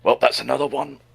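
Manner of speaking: high, drawn-out chirpy voice; cheerful killer. Acted. Villain pleased after killing a few Mobians, mock cheerful. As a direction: tick off a victim cheerfully, slowly. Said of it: "cheerful, because he's like".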